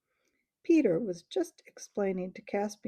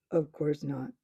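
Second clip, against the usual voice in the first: shocked; 4 semitones lower than usual. Acted. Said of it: "in a very shocked voice".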